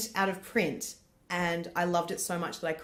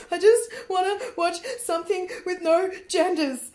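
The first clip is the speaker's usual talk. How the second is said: pleading; 12 semitones higher, 6 dB louder than usual. Retold or imitated. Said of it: "I'm like".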